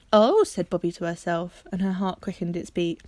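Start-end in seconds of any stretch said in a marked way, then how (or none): 0.1-0.4 a sudden, loud gasp of an oh; startled, breathy oh. Acted. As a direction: caught off guard, she blurts it. Bobby realizes something's coming.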